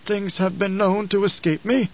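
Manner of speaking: put-on rueful old advisor admitting fault; bitter. A narrator's reading. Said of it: "Howitt spoke bitterly".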